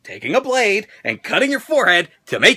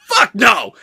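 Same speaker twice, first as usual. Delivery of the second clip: louder firm exclamation; a flat-out emphatic no; emphatic refusal; 3 semitones higher, 4 dB louder than usual. Real, not acted. Vlogger answering the moving question, emphatic loud refusal.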